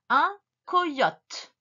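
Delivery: COYOTE set apart after a pause; dictation. Shown as a demonstration. Teacher gives the next word, careful dictation. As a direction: announce COYOTE clearly, word by word. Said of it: "le mot suivant".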